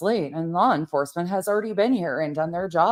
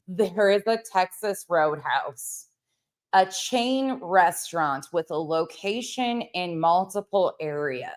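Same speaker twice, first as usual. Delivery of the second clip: deadpan sarcasm. Acted. Deadpan explanation of chain restaurant.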